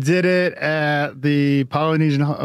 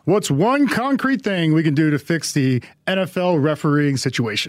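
a hint of a game show host; lightly voiced announcer; prize announcer. Shown as a demonstration. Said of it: "read this in a game show announcer voice".

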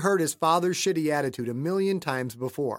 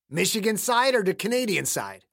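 put-on questioning old man; 5 semitones higher than usual. Voices caretaker Clayton asking.

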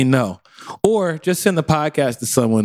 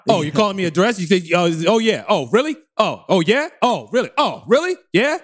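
raised, mock-offended New York voice; New York construction worker; 4 semitones higher than usual. Worker told he is under duress, mock affronted. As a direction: take offence in short rising jabs. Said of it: "turned into a New York construction worker".

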